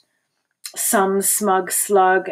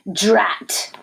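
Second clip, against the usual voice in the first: whispered curse; voiceless, thwarted exclamation; vexed whisper; 3 dB louder than usual. A narrator's reading. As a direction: whisper it in storybook frustration. Defeated sisters' muttered curse.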